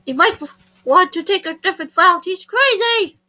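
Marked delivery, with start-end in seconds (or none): 0.0-2.2 put-on urgent warning in Estonian accent; Russian-like Estonian accent, rising to an exclamation. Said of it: "I think I'll try".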